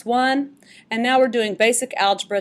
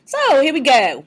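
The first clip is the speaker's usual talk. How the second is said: put-on Cockney accent; 3 semitones higher, 4 dB louder than usual. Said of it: "we're gonna do it in a Cockney, uh, ex-, accent today".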